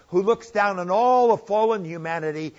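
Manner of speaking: ordinary talk, nothing marked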